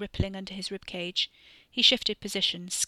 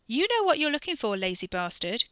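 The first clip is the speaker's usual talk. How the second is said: called up from the rocks, raised and high; calling back; 4 semitones higher, 5 dB louder than usual. A narrator's reading. Sister calls down to her lazy brother from the outcrop, raised voice. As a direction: shout it back down to him. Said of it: "Catherine called back".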